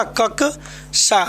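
"कक्षा" broken slowly into kak... sha; very slow, split "कक्षा" to show the cluster; syllable-by-syllable correction. Shown as a demonstration. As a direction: stop on the k, then release sha in "कक्षा". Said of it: "यहाँ होना चाहिए क्या".

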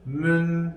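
"Mün" with rounded ü, closed on n; reading demo. Shown as a demonstration. Teacher to class, modelling "Mün". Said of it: "Ötürü olsaydı arkadaşlar".

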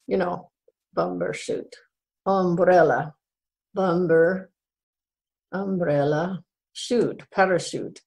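chatty Irish brogue. Pretend. Storyteller greeting listeners on the Day of the Irish, Irish brogue. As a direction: speak in a put-on Irish brogue. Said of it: "as long as I'm doing the brogue".

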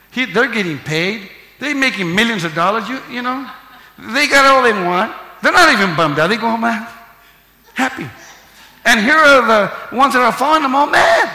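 loud, high, hammering preacher's climax; preacher's shout. Real, not acted. Pastor to congregation, shouting at the climax. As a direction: build it to a shout.

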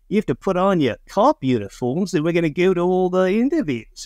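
put-on Aussie accent, lilting upward; imitation Australian accent. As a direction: attempt an Australian local giving orders. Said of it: "was any better".

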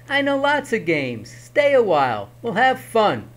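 high eager coaxing; pleading. Acted. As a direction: keep begging brightly. Herschel keeps pleading.

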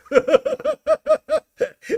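loud high burst of laughter; loud mocking laugh. Real, not acted. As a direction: cackle out loud at him. Mocking outburst about glasses.

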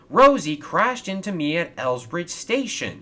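high, loud aggrieved whine; complaining. A narrator's reading. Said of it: "he complained".

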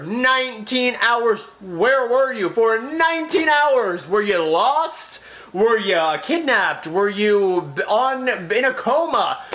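drawn-out outraged questions; exasperated rant. Real, not acted. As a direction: pile on the mock disbelief. Outraged rant at late reply.

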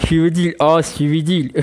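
slow, drawn-out mock Black Sea Turkish accent. Gamer mocking accent requests in a slow Black Sea accent. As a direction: tease the viewers in a hammed-up Black Sea accent. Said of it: "Karadenizli şivesi yapacağız diyor".

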